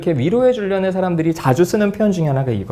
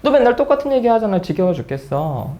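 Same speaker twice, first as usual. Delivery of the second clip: fed-up, stinging retort; sting a friend with it, starting high then dropping; acted-out exasperated jab; mock snapping; 4 semitones higher than usual. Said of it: "톡 쏘겠지".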